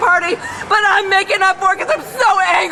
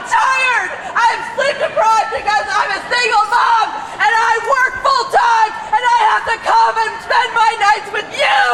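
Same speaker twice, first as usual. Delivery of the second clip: impassioned protest speech; 3 semitones higher than usual. Real, not acted. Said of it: "It was a stirring monologue".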